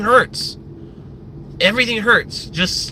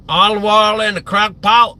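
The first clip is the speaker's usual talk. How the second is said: Paula Deen; 3 semitones higher, 4 dB louder than usual. Acted. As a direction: imitate a Southern cook's accent. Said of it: "why do you talk like that".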